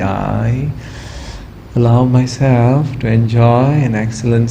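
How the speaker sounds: calm, measured voice leading a meditation, with long pauses; guided relaxation. Real, not acted. Yoga teacher talks students through relaxing the body, calm guided meditation. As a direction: guide them gently into stillness, easing off at phrase ends.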